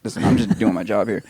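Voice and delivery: low, placating voice; calming. Acted. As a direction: talk him down gently, as just doing a job. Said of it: "you kinda bring him down".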